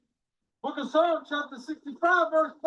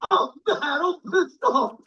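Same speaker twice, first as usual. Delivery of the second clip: mock whine; slower than usual. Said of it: "brother hit me up on Facebook".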